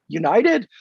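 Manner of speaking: tentative, questioning rise; insecure blurt. Retold or imitated. Young kid guessing the team for an older gentleman, insecure blurt. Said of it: "blurted insecurely going".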